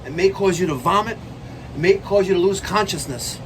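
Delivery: high dramatic announcer voice; ominous trailer warning; mock warning.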